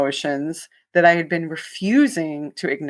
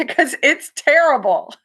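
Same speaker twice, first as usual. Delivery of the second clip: laughing; 10 semitones higher than usual. Real, not acted. Laughing at the doctor's pitch.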